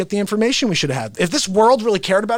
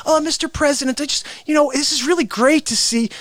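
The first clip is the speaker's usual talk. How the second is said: mildly fawning reporter, raised pitch; respectful; 5 semitones higher than usual. Acted. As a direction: politely flatter the president in a higher voice. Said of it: "people who are respectful when they ask a question".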